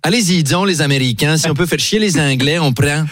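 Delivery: a hint of a Québécois accent; lightly put-on Québécois French. Comedian imitating Louis XVI with a mild Québécois accent. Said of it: "C'est mon imitation de Louis seize".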